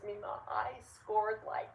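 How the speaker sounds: put-on excited kid. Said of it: "He goes".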